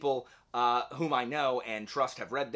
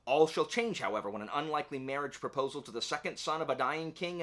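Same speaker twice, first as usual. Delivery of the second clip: lightly dramatic back-cover reading; blurb read aloud; 2 semitones higher than usual. Acted. Booktuber reading the back cover to viewers, lightly dramatic. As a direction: read the book jacket like a trailer.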